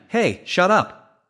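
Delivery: slow, pointed irritated rebuke; fed up with his friend's joke; annoyed snap. Acted. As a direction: drag out the annoyed shut up. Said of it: "annoyed ly snapped at his friend".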